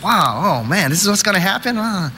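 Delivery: alarmed question ending in a little moan; mock freaked-out. New viewer after the scary movie, mock freaked-out. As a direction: pitch climbing into mild panic. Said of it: "that freaked me out".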